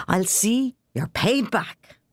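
put-on high excited old man; eager, knee-slapping old man. A narrator's reading. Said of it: "old Ryan said excitedly".

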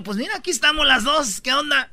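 high, challenging retold voice; mock showdown between rivals; imitated confrontation. Acts women confronting the cheater.

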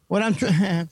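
holding back laughter mid-sentence; stifled giggles. Real, not acted. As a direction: laugh leaking through, slowed. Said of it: "yo me estoy aguantando la risa". (aguantando la risa)

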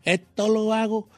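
slow Puerto Rican imitation, r as l; Puerto Rican accent. Host demonstrating Puerto Rican accent, slow imitation. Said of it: "El puertorriqueño".

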